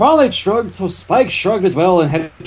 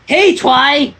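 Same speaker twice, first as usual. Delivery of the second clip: a lightly raised greeting call; narrated shout; 9 semitones higher, 5 dB louder than usual. A narrator's reading. Rainbow Dash calling to Twilight as she enters. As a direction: call out hey across the room. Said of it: "shouted Rainbow Dash".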